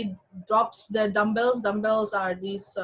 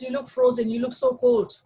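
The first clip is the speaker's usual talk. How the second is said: joking tease; 11 semitones higher, 5 dB louder than usual. Retold or imitated. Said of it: "you know, jokingly".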